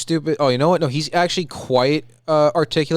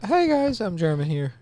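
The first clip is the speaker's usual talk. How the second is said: high start, softer mock German; terrible German; 5 semitones higher, 3 dB quieter, slower than usual. Friend tries the terrible German impression himself, mock German. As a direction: greet them in a badly faked German voice. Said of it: "That's a terrible German impression".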